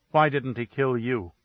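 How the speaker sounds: level, flat question with no lift; frozen, toneless accusation; dead flat tone. Acted. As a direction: ask it cold and even, as if numb. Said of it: "dead, flat tone that froze the air".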